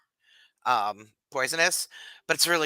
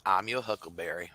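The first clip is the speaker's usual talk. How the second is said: Doc Holliday line; 6 semitones lower, 4 dB quieter than usual. Retold or imitated. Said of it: "Val Kilmer as Doc Holliday in Tombstone".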